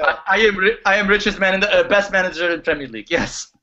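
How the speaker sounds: put-on heavy Russian accent, menacing; broken English Russian mobster. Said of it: "Roman is speaking through him".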